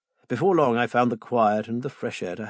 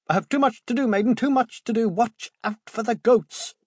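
put-on agitated old man; 12 semitones higher, 6 dB louder than usual. Agitated Bill rants about work.

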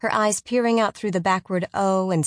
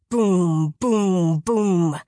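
booming; 4 dB louder, much slower than usual. A narrator's reading. Giant footsteps closing in.

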